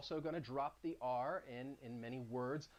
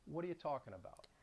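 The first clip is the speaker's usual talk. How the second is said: New York accent; 4 semitones lower than usual. Shown as a demonstration. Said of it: "it would sound like".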